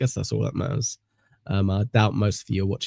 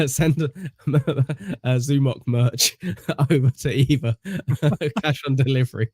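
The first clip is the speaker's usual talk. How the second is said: laughing mock order; 3 semitones higher than usual. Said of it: "sending everyone your address saying".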